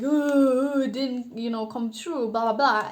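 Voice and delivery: hammed-up loud wailing "ooh", easing into dismissive blahs; mock crying. Tarot reader imitating a disappointed client, mock crying. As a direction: imitate a disappointed complainer, half in fun. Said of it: "and crying about it and being disappointed".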